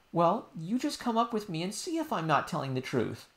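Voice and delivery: put-on high child voice, pleading; a little girl explaining earnestly; insistent princess. Princess telling nurse what happened, high and earnest.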